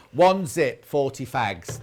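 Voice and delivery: laughing through a joke price list; half-laughing, hammed-up bargain; laughing mock price. Telling the guest her old price list, laughing. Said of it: "it'd be like".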